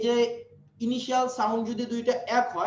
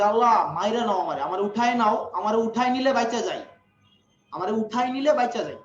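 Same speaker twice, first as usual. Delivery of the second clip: mock exasperated mother; 4 dB louder than usual. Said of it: "বিরক্ত হইয়া বলে".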